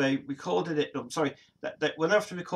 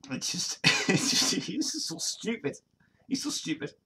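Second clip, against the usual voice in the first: higher, laughing through the words; 6 semitones higher than usual. Real, not acted. Streamer laughing at a silly singer's interview. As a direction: giggle it out, can barely say it. Laughing about the singer.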